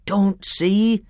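exclaiming. A narrator's reading. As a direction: cry out in disbelief. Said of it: "exclaimed the doctor".

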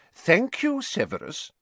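high start, falling away firmly. A narrator's reading. Dumbledore silencing Snape, firm. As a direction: cut him off with a firm thanks. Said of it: "said Dumbledore firmly".

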